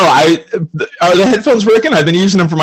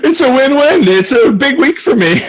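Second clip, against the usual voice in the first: laughing; 10 semitones higher than usual. Real, not acted. Joking gleeful after laugh.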